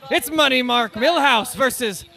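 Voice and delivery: slow ring announcer billing, last name stretched; drawn-out fight introduction; matchup announcement. Real, not acted. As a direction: roll out both names for the crowd.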